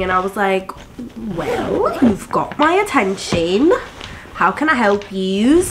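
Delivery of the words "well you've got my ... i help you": put-on flirty reply. Woman acting out her answer to an admiring stranger, flirty. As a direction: play up the coy comeback, stretching the words.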